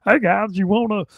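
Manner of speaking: a light mock redneck twang; hint of Southern redneck voice; redneck drawl. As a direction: play a folksy redneck. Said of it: "redneck gay".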